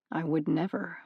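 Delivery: mean every word, gently; sincere. Acted. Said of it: "The sincerity in his voice".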